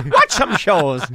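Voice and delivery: badly faked Jamaican accent; botched Jamaican accent, drifting Russian. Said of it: "Why is your Jamaican accent Russian?".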